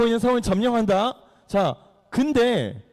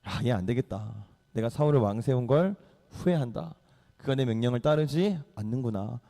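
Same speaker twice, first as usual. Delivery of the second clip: low, hushed voice of God; subdued, solemn divine speech; God speaking; 7 semitones lower, 5 dB quieter than usual. Acted. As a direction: pronounce regret softly and low. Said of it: "하나님이 갑자기 사무엘한테 말씀하시는 거야".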